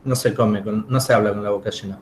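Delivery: talking around a candy; chewing while talking. Real, not acted. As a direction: speak with candy in mouth. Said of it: "estoy comiendo un caramelo".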